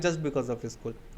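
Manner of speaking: lingering slow aside; slow emphasis. Real, not acted. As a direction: spell it out slowly for the class. Teacher stressing a point slowly.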